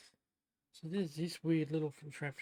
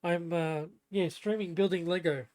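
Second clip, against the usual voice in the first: raised voice to someone off mic; louder, casual reply to a housemate; calling out; 7 dB louder than usual. Real, not acted. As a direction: answer loudly across the house.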